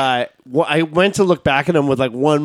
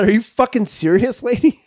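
mock angry retort; 7 semitones higher than usual. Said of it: "I said".

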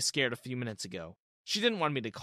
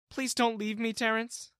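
pleading; 9 semitones higher than usual. Acted. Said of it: "clinging onto my shoulder".

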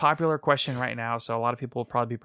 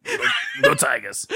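cheering; 5 dB louder than usual. Pretend. Echoing sports cheer, laughing.

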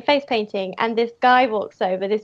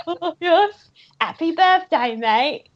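1 cheerful victim; 5 semitones higher, slower than usual. Retold or imitated. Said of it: "The guy goes".

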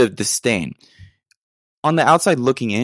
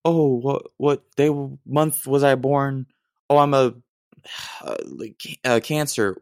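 mocking astrology girl; 4 semitones higher than usual. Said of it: "You're like".

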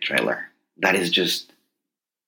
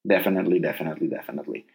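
fading out; 4 semitones lower, 5 dB quieter, much faster than usual. Real, not acted. Repeating word while trailing off.

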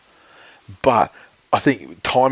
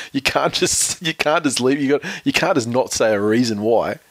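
higher-pitched, mildly exasperated protest; restarting a retold complaint, pitch raised at first; mock exasperation; 3 semitones higher than usual. Reporters pressing a tight-lipped coach for reasons, mildly exasperated. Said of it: "the reporters were so fucking exasperated too".

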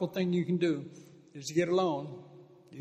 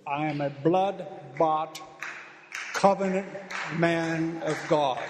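slow declaration; slower than usual. Shown as a demonstration. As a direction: proclaim it slowly, hitting covenant. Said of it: "You tell it".

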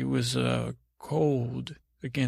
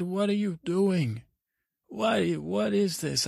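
higher-pitched, baffled questioning voice; acted parental questioning; 6 semitones higher than usual. Parents asking about his room, high acted bafflement. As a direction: question him in a raised pitch, slowing down.

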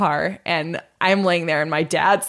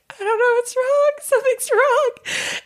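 scared and faint. Retold or imitated. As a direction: sound lost and frightened, drawing it out. Feeling faint, scared at table.

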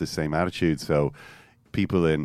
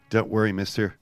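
calm reassurance; 3 semitones higher than usual. Retold or imitated. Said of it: "the voice spoke calmly".

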